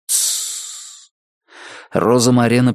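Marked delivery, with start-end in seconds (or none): 0.1-1.1 soft unvoiced hush; shushing. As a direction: hush her to silence. Hushing gesture. (тихое «тссс»)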